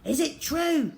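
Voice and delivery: high, loud, urgent question; urgent cry. A narrator's reading. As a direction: call out, hoping it's true. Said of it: "cried Father".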